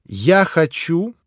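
a touch of command, slow on я хочу; mildly imperious demand. Acted. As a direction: order them as queen of the room. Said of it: "повелительно обратилась она".

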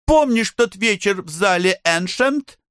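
put-on very high, fast girlish plea; pleading in disgust. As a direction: beg her friend, squealing with disgust. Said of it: "снова взмолилась". (высоко и быстро, умоляюще)

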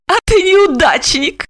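sting him with a smile; gloating smile. A narrator's reading. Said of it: "со злорадной улыбкой". (со злорадной улыбкой)

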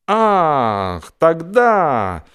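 high, loud sudden realization; light up as it comes back to you; an exclaimed aha of memory; brightening recognition. A narrator's reading. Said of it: "он ответил, просияв".

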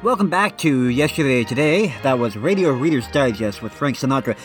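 normal talking voice

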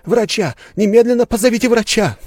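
high, loud urgent cry; alarmed yell. A narrator's reading. Bystander yelling to the hall for a doctor, alarmed. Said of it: "завопил кто-то".

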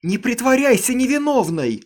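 high, loud furious accusation; piercing shout. A narrator's reading. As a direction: shriek the accusation. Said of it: "пронзительно выкрикнула Аманда".

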